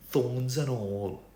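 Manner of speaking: put-on slow, tender Welsh accent; Welsh Tamlin. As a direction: draw it out lovingly, Welsh lilt. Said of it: "Tamlin says things like".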